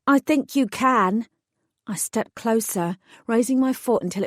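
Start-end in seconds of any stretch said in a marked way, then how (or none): 0.1-1.3 biting. Acted. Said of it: "I bit out".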